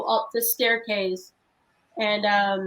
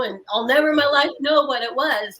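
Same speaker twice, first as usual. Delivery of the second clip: tearful; 2 semitones higher, 4 dB louder than usual. Real, not acted. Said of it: "the stress in your voice just telling us that story".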